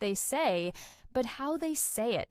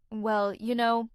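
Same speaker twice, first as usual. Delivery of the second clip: thinking filler; 4 dB louder, slower than usual. Retold or imitated. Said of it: "while we're thinking of what to say".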